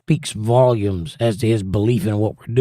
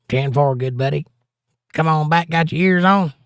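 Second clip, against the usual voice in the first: southern CB trucker; 5 semitones higher than usual. Pretend. Host slips into a Southern CB trucker voice on stream. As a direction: play a Southern trucker keying the CB radio. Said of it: "I don't know why I went southern there".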